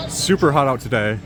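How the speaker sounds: normal talking voice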